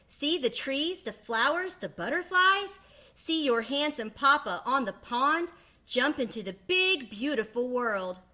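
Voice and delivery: mama duck selling the big world to her babies; enticing mama duck. Acted. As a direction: paint the world to tempt them.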